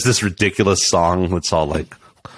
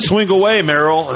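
movie quote impression; 8 semitones higher than usual. Quoting Mel Gibson in Signs.

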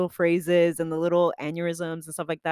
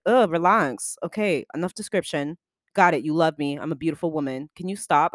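louder exasperated brush-off; annoyed cringe; 3 semitones lower, 4 dB louder than usual. Retold or imitated. Embarrassed by her brother's compliments, an exasperated louder ugh. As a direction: groan at too much affection. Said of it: "And I'm like".

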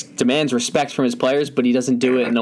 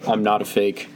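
monotone robotic phone voice. Pretend. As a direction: speak like a flat machine. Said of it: "Why do you sound like a robot right now?".

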